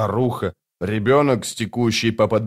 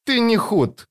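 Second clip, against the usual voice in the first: frowning; 12 semitones higher, slower than usual. A narrator's reading. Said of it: "нахмурился брат".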